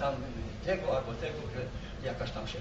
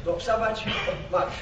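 barked command; 4 semitones higher, 4 dB louder than usual. Retold or imitated. Retold officer's command to march.

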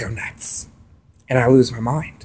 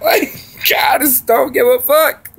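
laughing yell; 11 semitones higher, slower than usual. Real, not acted. Laughing outburst at end.

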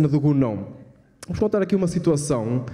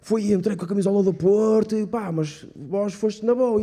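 lightly voiced friend; 6 semitones higher than usual. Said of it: "digo esta merda a alguém".

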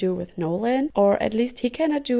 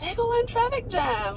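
excited; 11 semitones higher than usual. Real, not acted. Mother echoes child's phrase brightly.

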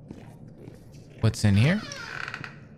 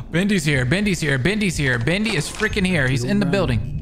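being chased; 5 semitones higher than usual. Real, not acted.

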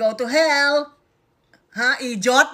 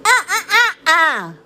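lips apart, only ah sounds; lips not touching; 3 semitones higher than usual. Shown as a demonstration. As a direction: say it without closing the lips. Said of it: "But without it touching".

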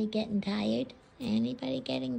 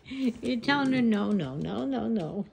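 firm, loud "no, no" to a pet; scolding the dog; 2 semitones higher, 6 dB louder than usual. Real, not acted.

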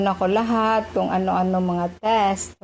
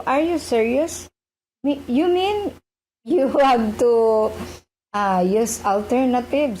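incredulous question; 3 semitones higher than usual. Retold or imitated. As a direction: ask it again, this time truly can't believe it. Retold disbelief at alternative medicine.

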